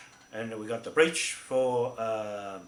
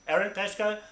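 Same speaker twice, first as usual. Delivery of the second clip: stern warning; 3 semitones higher, 5 dB louder than usual. Real, not acted. Addresses the man directly, warning.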